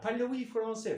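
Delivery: French accent formed at the lips; French style. Shown as a demonstration. Coach showing lip sounds, in French style. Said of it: "Fransız tarzı".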